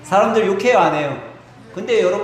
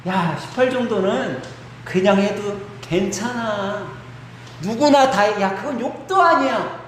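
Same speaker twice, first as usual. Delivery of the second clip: dismissive tempter; 3 semitones higher than usual. Acted. Sin tells a student swearing is harmless, dismissive coaxing. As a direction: brush it off, stretching the reassurance out. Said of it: "이렇게 우리 안에 들어온다라는".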